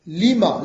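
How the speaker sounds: stresses لما with a clear long final a; teacher says لما as lima with an open final a, not لمن; correcting a word. Shown as a demonstration. Teacher correcting a student's reading, firm model word. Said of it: "ليس لمن".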